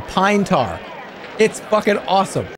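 usual speaking voice

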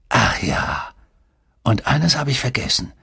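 restrained, grinning malice; nasty troll grin. A narrator's reading. Coach calling the player back, mildly menacing grin. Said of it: "mit dem fiesen Grinsen eines Trolls".

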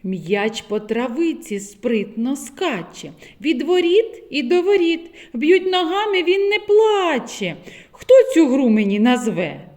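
put-on sing-song riddle for small children; riddle recital. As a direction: recite the rhyme gently. Reads riddle poem. (загадка для дітей)

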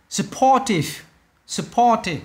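"Supportive" with POR pitched high, falling after; second-syllable stress. Shown as a demonstration. Teacher models for students, "Supportive" stressed on the second syllable. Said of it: "âm hai".

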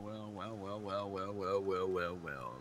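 starts very soft and far, growing closer each well; calling up from a well. Acted. Emerging from the well, pun.

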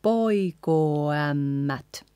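slow poikoo ämmät, long O sliding into Ä; slow linked poikoo ämmät; changing vowel. Shown as a demonstration. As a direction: draw out poikoo into ämmät without a break. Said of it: "You change the vowel there".

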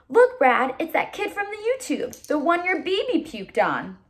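tank soldier voice. Acted. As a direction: call out to Brad excitedly. Soldier voice in story.

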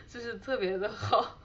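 laughing. Real, not acted. Laughs recalling the joke.

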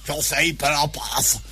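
low, slow boss voice; Kokkinos impression. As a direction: drag it out low, as the boss telling someone off. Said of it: "σαν τον κόκκινο μιλούσε". (μίμηση του Κόκκινου, χαμηλά και αργά)

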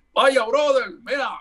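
mock the way people think Puerto Ricans talk; stereotyped Puerto Rican accent. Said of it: "¿Y cómo es que hablamos los puertorriqueños?".

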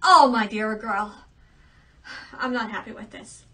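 loud, indignant royal scolding; angry king. Acted. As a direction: banish her in a huff. King angrily banishes his daughter.

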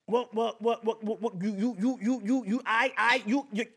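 hammed-up stuttering on every word; mock stutter. Begging a stranger while stuttering on purpose, hammed-up stammer. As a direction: trip over each word like a comic stammer. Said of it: "you stuttering way too much".

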